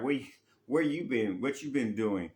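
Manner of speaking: a light, half-playful demand for answers; lightly acted accusing question; mock confronting. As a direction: ask like a partner who has been left waiting. Confronting a partner who vanished.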